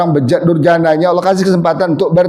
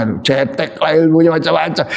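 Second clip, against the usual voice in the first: mock insult; 2 semitones lower than usual. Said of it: "dihina-hina sama si A".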